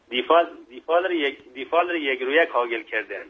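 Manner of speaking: proverb in Mashhadi dialect; Mashhadi-accented Persian. Shown as a demonstration. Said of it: "با لهجهٔ شیرین مشهدی".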